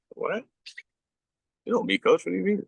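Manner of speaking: retold shocked reply. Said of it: "I'm like".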